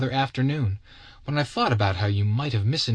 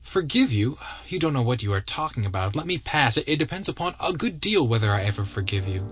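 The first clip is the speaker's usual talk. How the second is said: lightly voiced indignant Natalie, higher; indignant woman; 4 semitones higher than usual. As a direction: scorn his request, then hold it over him.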